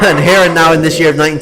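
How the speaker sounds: correcting a slip with a laugh; laughing off the wrong year; laughing at own slip. Real, not acted. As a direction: chuckle through the self-correction.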